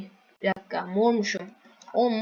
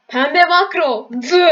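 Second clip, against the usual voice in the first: mocking drawl; 4 semitones higher, 11 dB louder, slower than usual. Real, not acted. Mocking the pink player's macro.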